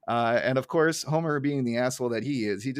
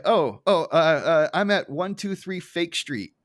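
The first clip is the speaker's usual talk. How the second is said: louder, slow flustered stammer; flustered panic; 4 semitones higher, 6 dB louder, slower than usual. Retold or imitated. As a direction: caught out, stalling nervously. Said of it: "she's like".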